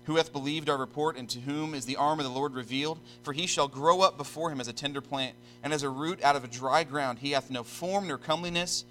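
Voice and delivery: solemn, measured scripture reading. Real, not acted. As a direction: read the verse out with deliberate pauses.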